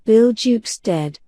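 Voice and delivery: plain reading voice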